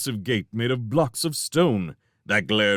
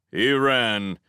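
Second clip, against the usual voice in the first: plain reading voice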